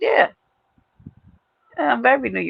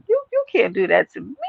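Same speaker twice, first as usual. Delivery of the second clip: mock offense. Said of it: "only thing I got pissed off about".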